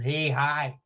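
light celebrity impression, softly delivered; a quick mimicked greeting; John Edward. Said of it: "That's my John Edward".

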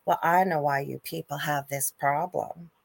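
hammed-up Southern church voice; mock Bible-belt accent, rising to loud; bad Southern accent. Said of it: "please forgive my bad accent".

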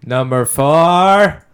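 countdown noise. Pretend. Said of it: "do my countdown noise".

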